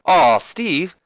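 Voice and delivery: high, drawn-out soothing; Deborah. Acted. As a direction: comfort him in a swooping high voice. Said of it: "And then Deborah's like".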